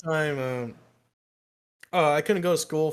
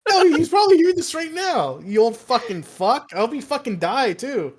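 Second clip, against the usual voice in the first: raised, loud comic cursing; mock angry tirade; 7 semitones higher, 5 dB louder than usual. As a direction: curse the old teacher in hammed-up spite. Mock tirade at old teacher listening.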